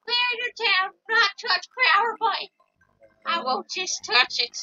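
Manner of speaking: put-on very old man. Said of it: "Now you're talking like a very old man".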